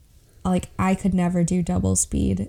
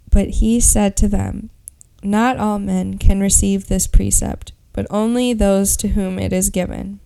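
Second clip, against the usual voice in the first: Bible reading; 3 dB louder than usual. Acted. Reads Matthew nineteen aloud.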